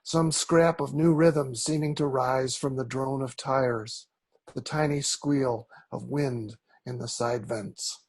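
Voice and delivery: measured poetry recital with deliberate pauses between phrases; poem reading. Acted. Poet reads Pale Blues to an audience, measured poem reading. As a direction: read it as verse, pausing phrase by phrase. Resumes the poem after a slip.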